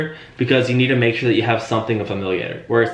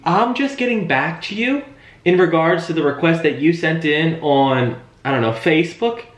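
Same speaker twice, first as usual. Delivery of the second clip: higher, slow and easy; familiar sales voice; 6 semitones higher, slower than usual. Shown as a demonstration. Trainer modelling the call for agents, high and slow. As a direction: take your time, like an old friend calling back. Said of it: "let me try it again".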